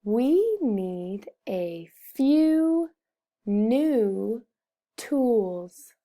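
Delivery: very slow, pausing before the last words; word-by-word reading. Shown as a demonstration. Teacher models a sentence for pupils, slow word-by-word reading. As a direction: read slowly, each word set apart.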